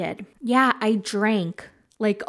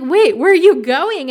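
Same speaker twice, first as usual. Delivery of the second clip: calling out; 6 semitones higher, 10 dB louder than usual. Retold or imitated. Guy calling after her.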